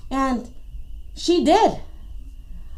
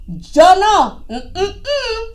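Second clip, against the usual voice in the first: Tortuga refusing; 4 semitones higher, slower than usual. Acted. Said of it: "said Tortuga".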